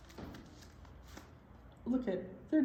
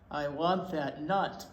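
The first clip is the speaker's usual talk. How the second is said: sneaky mouse; 6 semitones lower, slower than usual. Acted. Mouse plotting behind a rock.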